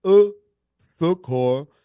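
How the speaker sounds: French pronunciation demo; careful French accent, for a learner. Shown as a demonstration. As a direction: slowly sound out the French word. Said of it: "do a French accent".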